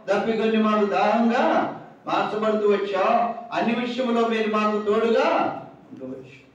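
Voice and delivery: steady pleading prayer voice, each line lifting at the end; fervent prayer. Acted. Preacher praying aloud for the congregation, fervent prayer. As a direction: pour out thanks to God line after line.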